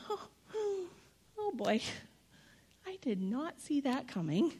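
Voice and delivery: high gasping 'oh', then stunned disbelief; hammed-up alarm; mock dismay. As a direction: play a flustered God caught off guard. Acts a dismayed God at pandemic.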